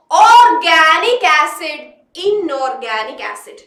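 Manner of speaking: very slow, word by word for note taking; slow dictation. Shown as a demonstration. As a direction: dictate it slowly so they can write. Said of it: "എഴുതിക്കോ". (എഴുതാൻ പാകത്തിൽ പതുക്കെ പറയുന്നു)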